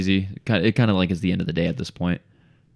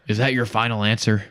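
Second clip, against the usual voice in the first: mock quiz host; 3 semitones higher, 3 dB louder than usual. Homeowner mocking quiz-show line.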